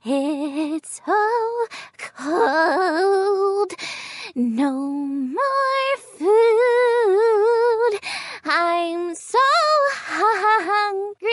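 slow, low, crying voice; sad. Acted. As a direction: whimper it out, cold and miserable. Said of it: "sad and hungry".

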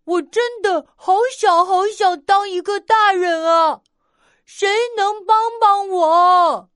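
a cub yelling his wish out; shouting out. Acted. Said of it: "站在小河边大喊".

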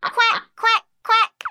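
bright, bouncy quack quack quack; duck quacks. Acted. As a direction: quack like a happy little duck. Duck sounds in story.

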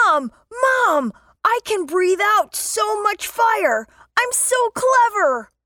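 put-on high, proud child shout; excited shouting. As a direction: call to mom with pride. Child dragon shows off proudly.

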